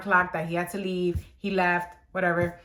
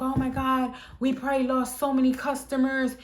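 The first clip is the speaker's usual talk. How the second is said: imitating upset boss; 4 semitones higher than usual. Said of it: "like, he was upset".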